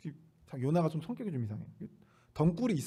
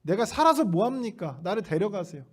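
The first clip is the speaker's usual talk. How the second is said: stubborn plea; 4 semitones higher, 3 dB louder than usual. Retold or imitated. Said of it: "막무가내로 하나님께 따지는 거죠".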